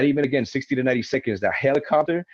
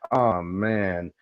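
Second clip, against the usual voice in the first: lower, unbothered sigh of a line; totally calm; 4 semitones lower than usual. Retold or imitated. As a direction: say it like nothing is wrong. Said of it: "the most fucking calm".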